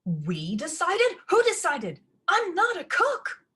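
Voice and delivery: high, loud, slow protest; indignant. A narrator's reading. Ella protests being made the cook, high and loud. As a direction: demand who decided.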